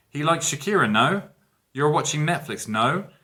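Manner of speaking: a touch of a Spanish speaker tacking no on the end; mock Spanglish. Shown as a demonstration. Teacher shows students the wrong Spanglish tag, mock Spanglish. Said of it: "It sounds very, very Spanglish".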